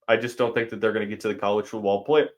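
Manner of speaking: speaking through hiccups; words broken off by a hiccup. Real, not acted. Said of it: "excuse me, got the hiccups".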